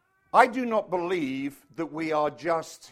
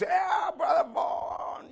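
imitating Herbie's greeting; 10 semitones higher, much slower than usual.

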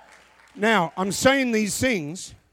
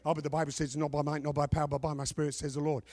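mock objection; 6 dB quieter, faster than usual. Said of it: "You say".

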